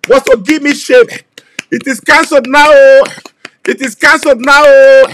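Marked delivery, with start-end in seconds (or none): 2.7-3.0 loud punching cry of oh; shouted oh. Real, not acted. Shouted exclamation. 4.6-5.1 loud punching cry of oh; shouted oh. Real, not acted. Shouted exclamation.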